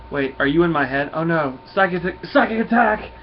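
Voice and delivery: mock panic rising to a high, loud cry; alarmed. Nova hears a voice in his head, mock alarm. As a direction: act out sudden alarm, building to a yell.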